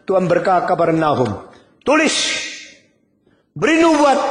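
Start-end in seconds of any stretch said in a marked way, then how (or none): 1.8-4.2 divine command. Acted. God ordering Nahum to prophesy, in a high ringing command.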